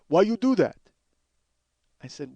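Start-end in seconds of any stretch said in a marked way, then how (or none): 0.1-0.8 louder, pressing clerk voice; clerk's accusing question. Retold or imitated. Clerk repeating his challenge to comedian, accusing. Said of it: "He goes".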